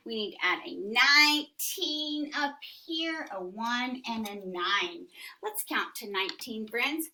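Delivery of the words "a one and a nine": hushed unvoiced aside; whispering. Shown as a demonstration. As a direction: whisper the digits.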